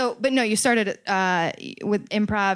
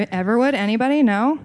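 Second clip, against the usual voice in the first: ordinary delivery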